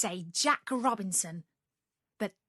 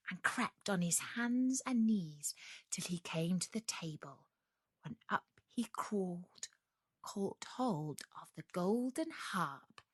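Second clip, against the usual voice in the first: whispered, much softer narration; hushed sneaking; 7 dB quieter than usual. A narrator's reading. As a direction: tell it as if tiptoeing past a sleeper.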